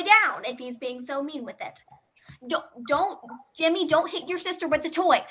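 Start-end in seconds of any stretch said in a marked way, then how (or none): 2.5-5.2 sharp phone scolding, a bit louder; scolding mom. Acted. Babysat mom on the phone scolds Jimmy, a bit louder. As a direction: snap at the kid down the phone.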